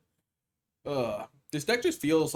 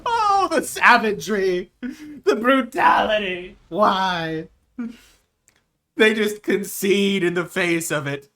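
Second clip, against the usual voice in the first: loud, drawn-out cries of mock horror; theatrical shouting; 4 semitones higher, 13 dB louder, slower than usual. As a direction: bellow it like a grand catastrophe. Crowing over a brutal play.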